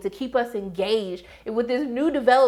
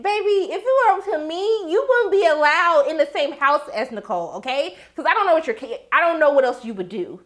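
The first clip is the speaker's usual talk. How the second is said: sassy telling-off; 5 semitones higher than usual. Retold or imitated. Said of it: "And I said".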